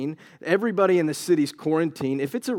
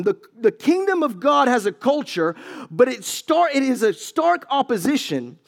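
preaching shout; 6 semitones higher than usual. Acted. Preacher shouting to the congregation about kingdom culture.

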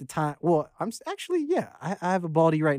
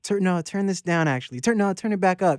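higher, self-interrupting imitation of fussy notes; mock indecisive feedback; 5 semitones higher than usual. Artist imitating his back-and-forth notes to engineer, mock indecisive. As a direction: keep cutting yourself off with a new order.

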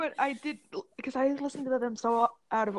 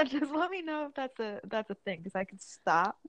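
talking around candy; words through a mouthful of candy; chewing while talking; 3 semitones lower than usual. Real, not acted. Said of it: "can you guys hear me eating my candy".

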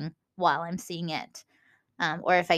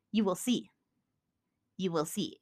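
spooky whisper; 6 dB quieter than usual. Acted. Ominous spooky promise.

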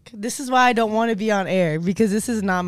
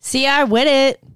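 sexy voice; 4 semitones higher, slower than usual. Shown as a demonstration. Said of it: "Run that back one more time".

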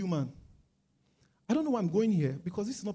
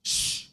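hushing shh. Retold or imitated. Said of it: "I said".

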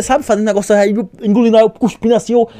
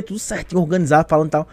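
ordinary delivery

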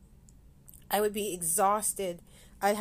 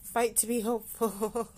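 fighting back tears. Real, not acted. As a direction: voice tight with held-back tears. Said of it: "I'm trying not to cry".

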